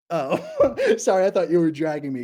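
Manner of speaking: high burst of laughter; laughing. Real, not acted. Streamer laughing at a chat comment. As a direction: laugh it out, then speak through it.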